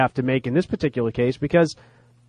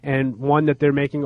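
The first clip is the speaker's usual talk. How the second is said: whistling nose. Real, not acted. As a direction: air whistling through a stuffed nose. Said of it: "whose nose is whistling".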